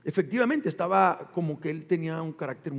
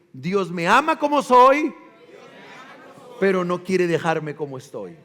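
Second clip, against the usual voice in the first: louder, proclaimed to the church; proclaimed motto; 2 semitones lower, 6 dB louder than usual. Shown as a demonstration. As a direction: call the motto out for all to repeat. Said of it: "Díganlo".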